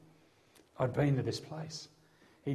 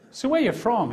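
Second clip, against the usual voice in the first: higher, louder repeated question; louder, firmer second ask; pressing repeat; 10 semitones higher, 5 dB louder than usual. Retold or imitated. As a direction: press him for a straight answer. Officer repeats question, pressing harder.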